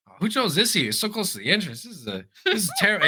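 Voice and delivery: put-on high protest, giggling by the end; imitating coworker cracking up. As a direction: imitate a complainer who can't hold back the laugh. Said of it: "he started laughing".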